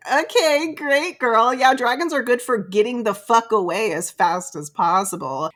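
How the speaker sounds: high, mocking "okay, great, girl"; sarcastic girl. Friend mocking the dragon plan, high sarcastic voice. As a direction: sneer at the plan in a put-on high voice. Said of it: "she's like".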